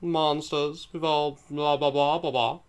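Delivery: pompous. Acted. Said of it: "I'm so pompous".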